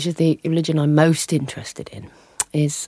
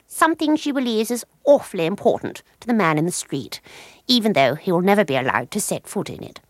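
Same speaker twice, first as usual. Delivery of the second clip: reading from her book; 3 semitones higher than usual. Acted. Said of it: "the book is full of little bits".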